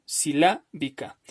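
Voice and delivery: "Silábica" slowly, with weight on LÁ; slow demonstration of "Silábica", accented on LÁ; stress on LÁ. Shown as a demonstration. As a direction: stretch si-LÁ, then drop -bica. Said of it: "esta es la sílaba tónica".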